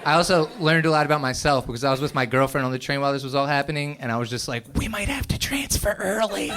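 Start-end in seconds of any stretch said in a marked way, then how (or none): 4.7-6.5 high, meek little voice; mock timid. Comic to his girlfriend on the train, meekly nervous. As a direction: squeak it out like a coward.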